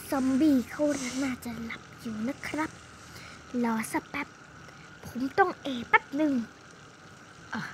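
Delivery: don't wake the zombie; hushed. Pretend. Hero hiding near sleeping zombie, hushed.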